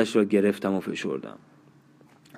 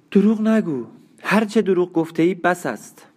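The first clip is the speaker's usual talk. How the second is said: sharp, higher and louder outburst; sudden anger; 7 semitones higher, 3 dB louder than usual. A narrator's reading. Dying woman lashing out at her companion, sudden angry outburst. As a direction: snap out in sudden anger, pitch jumping up. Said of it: "با خشمی ناگهانی گفت".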